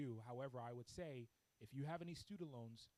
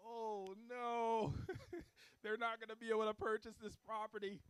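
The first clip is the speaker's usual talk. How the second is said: retold alarm; 9 semitones higher, 11 dB louder than usual. Alarmed at client's huge tax debt.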